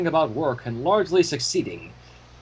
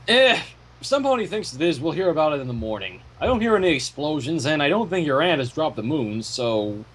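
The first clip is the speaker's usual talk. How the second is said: unconcerned; 3 semitones lower than usual. Acted. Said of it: "in a tone untouched by concern".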